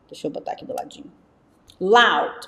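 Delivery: ordinary talk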